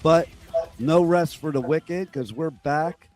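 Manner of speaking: lost voice, hoarse and strained; talking through a shot voice. Real, not acted. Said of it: "I lost my voice".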